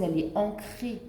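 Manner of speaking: normal talking voice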